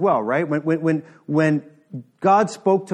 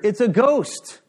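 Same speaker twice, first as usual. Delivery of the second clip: higher, louder mock-terrified shout; frightened cry; 8 semitones higher, 5 dB louder, slower than usual. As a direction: play the disciples' sudden fright. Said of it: "cried out in fear".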